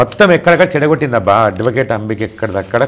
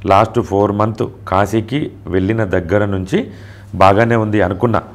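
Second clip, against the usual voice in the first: slow despairing message; 4 semitones lower, slower than usual. Retold or imitated. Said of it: "అని పెట్టింది ఆమె".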